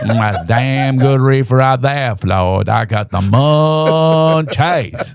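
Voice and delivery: lazy small-town sheriff, savoring the reefer; a hint of Andy's drawl, stretched slow; Andy Griffith.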